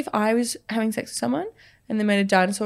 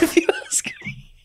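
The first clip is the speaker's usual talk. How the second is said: Fat Bastard; 3 dB quieter than usual. Retold or imitated. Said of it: "more of a fat bastard".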